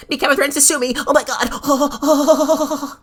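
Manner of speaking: drawn-out sarcastic oh my God; mocking the rival. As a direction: ham up his fake outrage.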